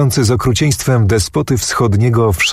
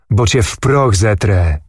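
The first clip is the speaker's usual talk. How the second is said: plain reading voice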